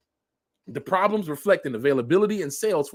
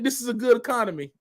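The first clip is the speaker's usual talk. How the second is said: sarcastic; 6 semitones higher, faster than usual. Acted. Sarcastic repeat.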